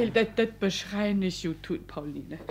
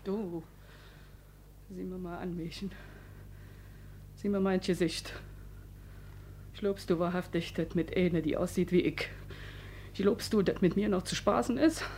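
much softer, low threat; quiet menace; 4 semitones lower, 10 dB quieter than usual. Acted. Frau John quietly threatening the maid. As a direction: warn her low and cold.

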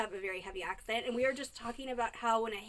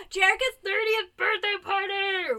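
louder, slower excited announcement; 8 semitones higher, 8 dB louder, slower than usual. Acted. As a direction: announce it like big news. Announcing friend's birthday.

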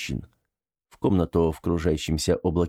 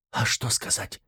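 hushed, softer question; whisper; 5 dB quieter than usual. Acted. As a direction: ask under your breath. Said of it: "шёпотом спросила та".

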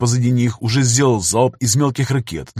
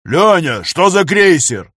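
higher, louder call after him; shouting; 6 semitones higher, 6 dB louder, much slower than usual. A narrator's reading. Gunner shouting after the running tech, loud call. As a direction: yell down the corridor. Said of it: "закричал Дэн".

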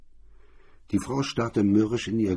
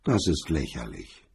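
nasty; 6 semitones lower, 4 dB quieter than usual. A narrator's reading. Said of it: "Sie sagte garstig".

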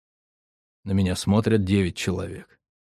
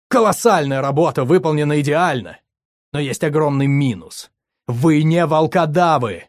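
angry yelling; 8 semitones higher, 5 dB louder than usual. A narrator's reading. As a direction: hurl the question at them in rage. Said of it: "продолжил орать я".

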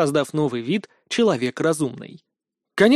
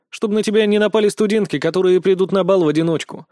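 stern; 3 semitones higher, 3 dB louder than usual. Acted. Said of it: "строго ответил я".

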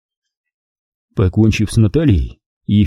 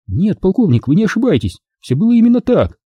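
Fedko's voice; 9 semitones higher than usual. Acted. Fedko answers the colonel.

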